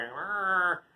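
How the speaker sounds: mild imitation of a cow's groan; half-hearted angry moo; angry cow bellow. Angry cow in the barn, mildly imitated bellow. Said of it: "she'd hear the angry cow".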